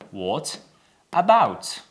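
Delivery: "What", pause, "about", word by word; British "What" with a short O vowel; British pronunciation. Shown as a demonstration. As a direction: spell it out slowly for learners, word by word. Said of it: "It's O sound".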